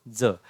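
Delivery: ज as dental 'dza'; Marathi pronunciation. Shown as a demonstration. Teacher repeats what to call it, ज as 'dza'. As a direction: say ज with 'dz', not 'j'. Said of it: "क्या कहेंगे इसको?".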